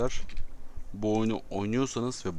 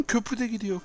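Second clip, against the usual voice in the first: panicked; 10 semitones higher than usual. Real, not acted. Bridge collapsing too.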